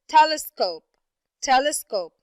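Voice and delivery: telescope with TEL punched, then falling; stress on first syllable. Shown as a demonstration. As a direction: hit the "tel" in telescope each time. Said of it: "It's the first syllable".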